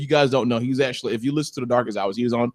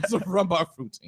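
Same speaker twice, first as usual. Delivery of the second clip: lightly voiced nanny, slow and soft; half-hearted matron imitation, drawn out; Mrs. Doubtfire; 4 semitones higher, 7 dB quieter than usual. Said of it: "Robin Williams from Missus Doubtfire".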